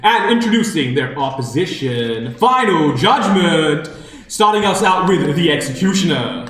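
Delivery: crackly commentator's box PA voice; tinny announcer voice. Acted. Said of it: "tinny, uh, voice from a commentator's box".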